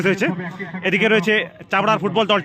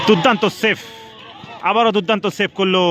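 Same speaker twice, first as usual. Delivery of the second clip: excited commentary. Real, not acted. Keeper saves penalty.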